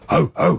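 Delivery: two short mock barks; playful barked greeting. Host jokingly greeting a caller properly, barking. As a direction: bark hello in place of a word. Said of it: "I should have greeted you properly".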